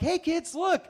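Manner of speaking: imitating a chipper tourist father; Oklahoma dad. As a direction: point out the spectacle to the kids. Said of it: "dads from Oklahoma that are like".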